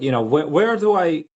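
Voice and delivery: imitated Slavic-accented English. Quoting ex asking where she belongs, Slavic accent. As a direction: ask it as his ex, in a Slavic accent. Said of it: "That was a very good Slavic accent".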